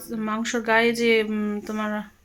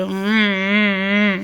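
put-on play-cry for the baby, humming hm hm; নকল কান্নার হুম হুম; mock crying hum; 3 semitones lower, 6 dB louder, much slower than usual. Shown as a demonstration. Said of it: "এরকম করে।".

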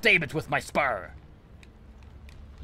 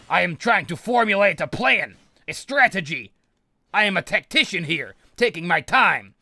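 loud high frantic yelling; startled panic; 7 semitones higher, 7 dB louder than usual. Real, not acted. Gamer surprised by a rat behind him, loud frantic yelling.

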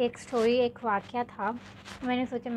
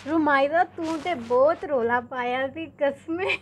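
mock panicked call; 2 semitones higher, 5 dB louder, slower than usual. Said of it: "उन्होंने जो रोला डाला है".

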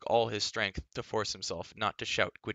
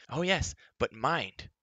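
slow, higher, puffed-up creature voice; proud little creature; 5 semitones higher, 4 dB louder, slower than usual. A narrator's reading. Gurgi vowing to guard the princess, proud creature voice. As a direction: boast like a loyal little beast.

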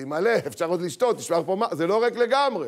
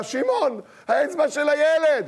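higher, louder frantic call; alarmed mock mother; panicked mother; 9 semitones higher, 6 dB louder than usual. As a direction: cry out for her husband. Panicked mother calls husband.

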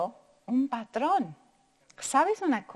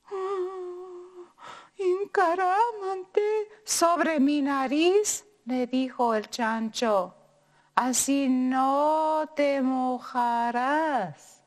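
sly pig; 2 semitones higher, 3 dB louder, much slower than usual. Acted. Pig coaxing the tortilla onto his nose, slow and sly. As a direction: lure her in slowly like a sly pig.

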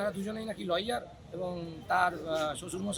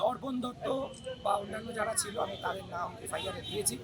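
worn, raspy hoarse voice; 4 dB quieter than usual. Real, not acted. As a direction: speak with a voice gone hoarse. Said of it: "বলেওছি আমার গলা ভেঙে রয়েছে".

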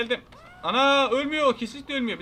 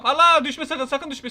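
alarmed cry; 6 semitones higher, 7 dB louder than usual. Real, not acted. About to fall.

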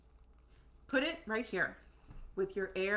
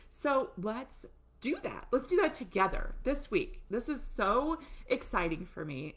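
ordinary talk, nothing marked

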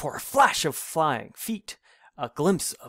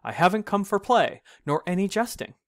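wild protest; 6 semitones higher, faster than usual. A narrator's reading. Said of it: "in wild protesting".

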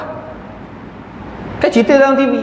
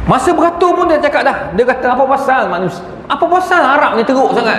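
chuckling through a high retold complaint; laughing; 5 semitones higher than usual. Real, not acted. Ustaz laughing while quoting the pilgrim's grumbling. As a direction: laugh as you quote his grumbling.

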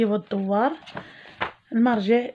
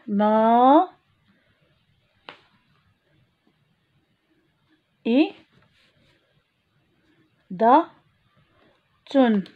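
مائدة split into ما إي دا تن with pauses; teacher segmenting مائدة; syllable by syllable; much slower than usual. Shown as a demonstration. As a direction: break مائدة into syllables slowly. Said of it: "المقطع الذي فيه حرف الهمزة".

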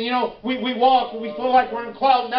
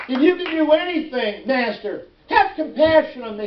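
raised, pleading father's cry. Acted. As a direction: plead to the Master for a child. Preacher acts father pleading to Jesus.

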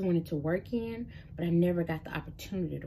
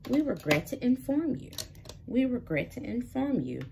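mock rejection email; 5 semitones higher than usual. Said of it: "email after email of".

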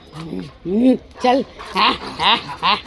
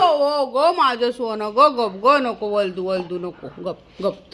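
soft, coaxing pet-talk, trailing lower; tender soothing; 4 semitones lower, 3 dB quieter, slower than usual. Real, not acted. Owner hushing a beloved pet, tender and soothing. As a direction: soothe a fussing pet lovingly.

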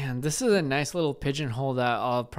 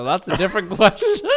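laughing; 3 semitones higher, 5 dB louder than usual. Real, not acted. Laughs at the siphon question.

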